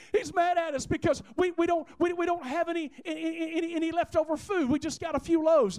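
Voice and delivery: high, stammering mock panic; flustered worry. Disciples fretting that Jesus is mad about bread, flustered. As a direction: trip over the words, worried and pleading.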